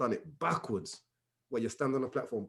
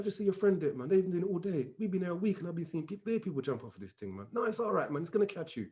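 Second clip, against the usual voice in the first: softer, slightly raised coaxing voice; imitated easygoing reassurance, kept soft; 3 semitones higher, 7 dB quieter than usual. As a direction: talk a nervous jumper round. Voicing the man talking him round.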